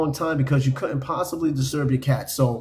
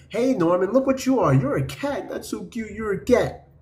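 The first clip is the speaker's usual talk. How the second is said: higher, sing-song cooing at the cat; mock baby talk; 5 semitones higher than usual. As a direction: gush at the cat in the mirror, mocking. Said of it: "be like".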